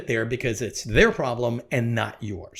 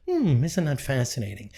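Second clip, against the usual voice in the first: softer detached hum; a hint of cool fascination; Spock-like calm; 3 dB quieter than usual. Showing how to answer negativity, lightly calm and soft. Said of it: "who can say".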